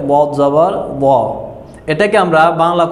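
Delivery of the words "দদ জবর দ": "দদ জবর দ" spelled out slowly, with a soft Arabic d; soft Arabic Dad. Shown as a demonstration. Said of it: "নরম করে".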